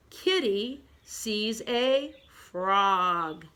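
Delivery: very drawn-out, word by word; slow read-along. Shown as a demonstration. Teacher leads pupils through first picture, slowly.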